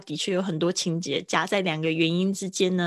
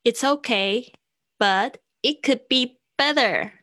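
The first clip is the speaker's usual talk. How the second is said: quoting a friend; 5 semitones higher, 4 dB louder, slower than usual. Retold or imitated. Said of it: "我朋友常会这样跟我讲说".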